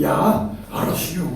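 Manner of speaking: slow, drawn-out Chungcheong yes; imitated Chungcheong assent. Preacher mimics congregant promising to evangelise, slow Chungcheong assent. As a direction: agree easily in Chungcheong dialect. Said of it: "충청도 사람은 그래 놓고는".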